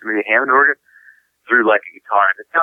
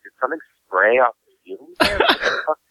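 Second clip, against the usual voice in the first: rising to a high, stunned what the fuck; retelling being sprayed by a bat, baffled; baffled outburst; 5 semitones higher than usual. Retold or imitated. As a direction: disbelief building as you realise. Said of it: "I'm like".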